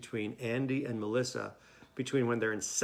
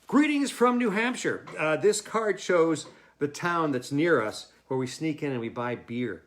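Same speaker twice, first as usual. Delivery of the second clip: cheery letter reading; 2 semitones higher, 6 dB louder than usual. Acted. Reading Andy's postcard aloud.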